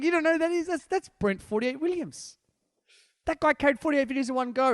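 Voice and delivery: hammed-up proud mother, high pitched; mother's voice. Mother telling her son who the champ is, high and amazed. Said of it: "She's like".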